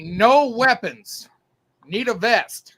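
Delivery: retold sergeant's yell, slow and drawn out; imitated yell. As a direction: mimic a curt order called across a room, words stretched. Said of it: "he yells at me".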